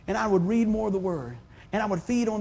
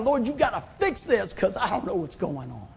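crying out to God; 4 dB louder than usual. Retold or imitated. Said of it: "And I scream out".

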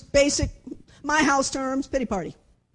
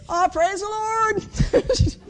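high, loud, drawn-out praise; super-optimistic Rosie; 8 semitones higher, 6 dB louder, much slower than usual. Retold or imitated. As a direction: exclaim it high and slow, hammed-up. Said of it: "She's super optimistic".

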